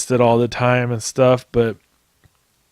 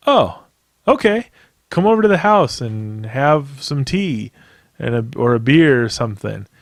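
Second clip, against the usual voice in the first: cheery invitation. Retold or imitated. Bloody dad cheerfully inviting the new neighbors over. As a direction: sing out the welcome like nothing's wrong. Dad's friendly invitation quoted.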